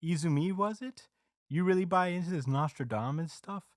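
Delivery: mock the kid like a smug TV host; lightly voiced smug announcer. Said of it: "the T V announcer is like".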